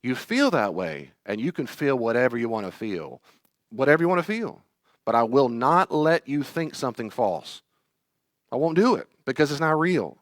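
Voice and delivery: steady, gentle correction; adult calming an anxious child; firm but kind. Retold or imitated. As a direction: set a loving boundary. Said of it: "I visualize looking at him".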